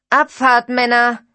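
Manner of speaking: loud, high rallying call. Acted. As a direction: shout it to the whole truck. Driver calls out to the guys. (lauter, hoher Aufbruchsruf)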